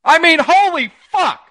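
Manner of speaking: high, loud exclamation of disgust; exasperated outburst. Real, not acted. Cohost erupting over the Panthers, loud disgusted outburst. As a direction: blurt it out, fed up.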